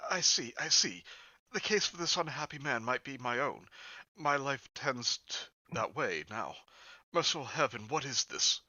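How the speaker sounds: shuddering. Acted. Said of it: "shuddering from head to foot".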